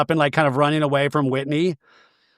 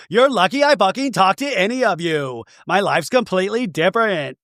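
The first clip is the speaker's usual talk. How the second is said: mildly higher, tearful imitation; half-hearted imitation of crying while arguing; mock clapping tears; 4 semitones higher than usual. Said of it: "eventually gonna clap while crying".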